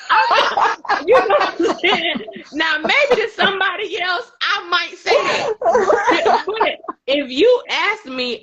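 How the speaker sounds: high, laughter-filled speech; laughing while talking. Real, not acted. Speaker cracks up explaining what they might say, laughing. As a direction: talk through helpless real laughter.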